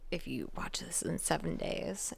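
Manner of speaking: hushed horror-movie threat; creepy Ring voice. Pretend. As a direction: whisper it like a cursed tape. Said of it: "I thought of The Ring".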